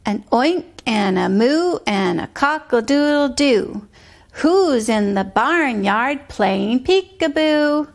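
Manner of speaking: put-on sing-song rhyme for a child; bouncy nursery rhyme read aloud; rhythmic rhyme reading. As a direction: chant the barnyard poem with a steady beat. Teacher reads rhyme poem to child.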